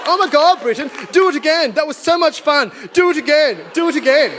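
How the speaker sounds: high-pitched gushing excitement; hammed-up, high eager cheering; mock-thrilled natives. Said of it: "The natives are like".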